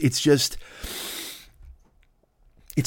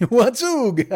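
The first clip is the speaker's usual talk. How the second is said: puzzled god; 10 semitones higher than usual. Acted. God asks puzzled in skit.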